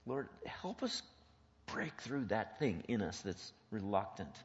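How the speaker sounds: deliberate prayer with pauses; earnest prayer. Real, not acted. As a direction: pray aloud for the group, phrase by phrase. Leads closing prayer.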